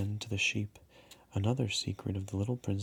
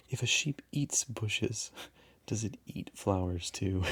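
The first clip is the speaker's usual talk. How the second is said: laughing. Shown as a demonstration. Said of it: "My mistake".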